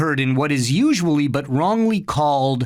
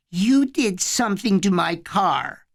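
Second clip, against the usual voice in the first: stunned certainty; 5 semitones higher than usual. A narrator's reading. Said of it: "with a stunned certainty".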